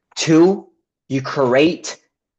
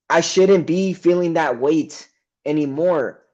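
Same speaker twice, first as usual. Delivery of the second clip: higher-pitched exasperated outburst, retold; snapping in anger; 5 semitones higher than usual. Retelling snapping at his business partner, higher exasperated outburst. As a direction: let it burst out, fed up and raised. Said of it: "I snapped".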